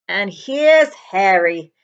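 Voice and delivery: slow, loud, friendly giant greeting; booming giant. Acted. The giant greets Harry, slow and loud. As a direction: draw it out like a big man pleased to see him. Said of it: "said the giant".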